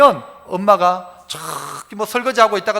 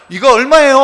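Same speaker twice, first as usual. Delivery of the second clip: tourist asking price; 6 dB louder than usual. Retold or imitated. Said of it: "내가 한국말 하면".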